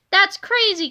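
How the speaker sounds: yell. A narrator's reading. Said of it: "Kipper yelled".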